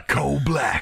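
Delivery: hushed dramatic whisper. Pretend. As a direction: whisper the name like a secret. Whispering the hero name.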